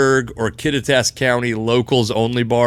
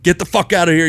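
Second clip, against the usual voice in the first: retold yell; 5 semitones higher, faster than usual. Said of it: "He was screaming at us".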